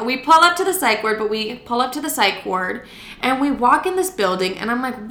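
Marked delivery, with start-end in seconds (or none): 0.0-1.2 high sing-song echo of own words; mock self-imitation. Storyteller mimicking her own opening line, mock self-imitation. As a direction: parody your own story opener, pitched up. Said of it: "I like how I'm like".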